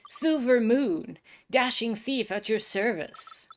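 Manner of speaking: slow, grand theatrical self-introduction; dashing thief intro. Acted. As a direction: announce yourself like a gallant rogue.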